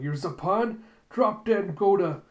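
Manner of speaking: high, loud defiant yell; angry challenge. Retold or imitated. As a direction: hurl a curse at the enemy. Acted hunter's attack cry.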